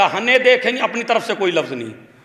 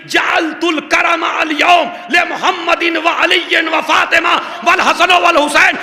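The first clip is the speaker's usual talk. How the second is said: preaching at full force; 6 semitones higher than usual. Acted. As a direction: lift the crowd to its peak. Climactic majlis preaching.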